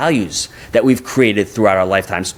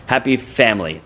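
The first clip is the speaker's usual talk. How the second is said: put-on Japanese accent; 4 semitones higher than usual. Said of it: "in his Japanese accent".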